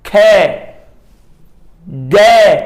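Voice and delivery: ਖੈ then ਗੈ spoken apart, each clearly articulated; sound demo. Shown as a demonstration. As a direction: model ਖੈ and ਗੈ one at a time for the class. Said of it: "ਬੋਲ ਕੇ ਵੇਖੋ".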